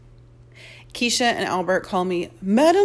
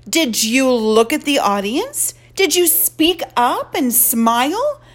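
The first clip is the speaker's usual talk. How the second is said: stern mother scolding; 5 semitones higher, 5 dB louder than usual. Acted. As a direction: demand answers from a daughter.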